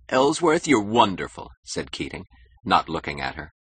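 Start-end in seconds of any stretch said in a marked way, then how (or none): 0.1-1.5 high, loud, grateful exclamation; gushing delight. Acted. Keating thanks Toohey for the chance, gushing. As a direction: gush with raised, excited voice. Keating gushes once Dominique agrees.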